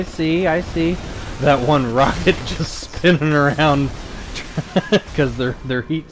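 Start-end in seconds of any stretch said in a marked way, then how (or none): 1.4-3.9 laughing. Real, not acted. Watching rocket spin, laughing. 3.9-5.1 breathy laugh. Real, not acted. Laughing at game.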